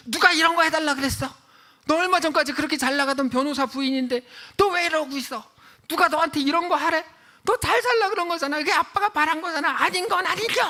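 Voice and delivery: loud, high acted yelling; imitated father's outburst. Father rejecting his daughter's meal tray, angry. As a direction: rage at her as the enraged dad.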